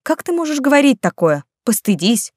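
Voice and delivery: a mock-outraged aunt's rebuke; indignant scolding. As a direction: shame him for his joke. Women scold Vincenzo angrily.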